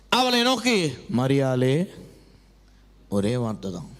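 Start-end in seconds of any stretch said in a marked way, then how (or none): 1.2-1.8 low voice lifting at the end; gentle calling. Acted. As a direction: call her name as Jesus would, much lower. Jesus calls Mary by name. (தாழ்ந்த குரலில் பெயர் சொல்லி அழைத்தல்)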